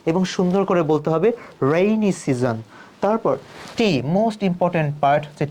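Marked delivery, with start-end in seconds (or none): 1.6-2.6 "রেইনি সিজন" with tongue folded on r; nicely curled R. Shown as a demonstration. Teacher urging a beautiful delivery, curled r in "রেইনি সিজন". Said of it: "জিহ্বা একটু ভাঁজ করতে হবে".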